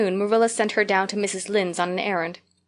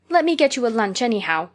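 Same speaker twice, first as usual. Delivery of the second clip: imploring. Acted. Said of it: "implored Anne".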